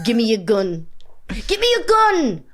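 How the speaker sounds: rising, insistent demand; imitating a TV spy demanding a gun; Slow Horses character. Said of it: "a character that's always going".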